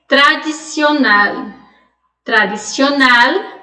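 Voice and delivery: "Tradicional" with a hard Spanish D, no "dj" sound, said slowly; Spanish pronunciation. Shown as a demonstration. Teacher slowly models "Tradicional" the Spanish way for her students. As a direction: say "Tradicional" slowly with a clean dental D. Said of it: "a pronúncia delas e comparar com o português".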